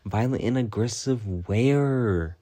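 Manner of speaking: slow, drawn-out challenge; mock-indignant retort. Replaying a comeback to an accusing coworker, slow and indignant. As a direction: stretch out the disbelieving question.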